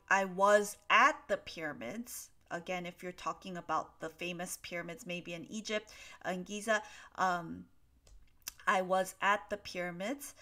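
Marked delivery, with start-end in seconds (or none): 0.1-2.3 "at" stressed, louder example; emphatic example, weight on "at", rising at the end; model sentence. Shown as a demonstration. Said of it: "if you say". 8.7-10.3 "at" stressed, rising end; "was at" set out distinctly; model sentence. Shown as a demonstration. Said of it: "that simply means".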